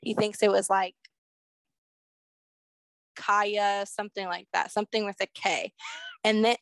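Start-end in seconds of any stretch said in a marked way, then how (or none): 3.2-6.6 wheezing between words; a wheezy catch on each breath. Real, not acted. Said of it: "I'm wheezing".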